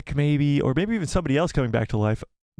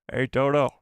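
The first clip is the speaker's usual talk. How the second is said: Cad Bane impression. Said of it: "I wanna get good at impressions".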